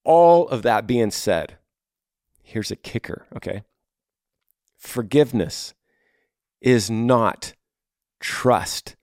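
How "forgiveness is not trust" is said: Forgiveness, pause, is not, pause, trust, each set apart; slow emphatic statement. Shown as a demonstration. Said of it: "I'll say that again".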